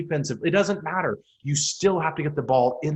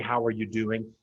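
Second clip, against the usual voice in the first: lower, softer, meaning "How are you doing?"; sincere question; 4 semitones lower, 3 dB quieter than usual. Shown as a demonstration. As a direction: ask it and really want the answer. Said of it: "But today you say".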